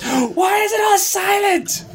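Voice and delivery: surprised gasp. Real, not acted. Gasps at silent recording.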